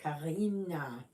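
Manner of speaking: a light German-accented Karina. Shown as a demonstration. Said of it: "I kind of put my German accent on there".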